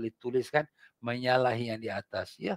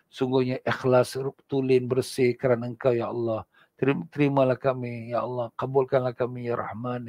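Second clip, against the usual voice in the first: earnest prayer. Acted. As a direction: pray humbly on behalf of all. Leads a closing prayer.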